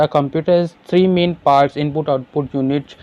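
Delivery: very slow, careful question read-out; slow classroom dictation. Acted. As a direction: spell it out slowly for students. Reads exam question aloud.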